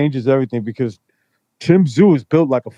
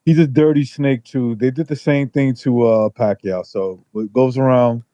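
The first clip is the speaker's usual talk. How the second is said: muffled phone. Real, not acted. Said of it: "It sounds like you're muffled a little bit".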